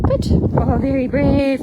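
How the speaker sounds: proud, stretched-out cooing to an animal; delighted praise. Real, not acted. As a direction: praise the animal, slow and loud.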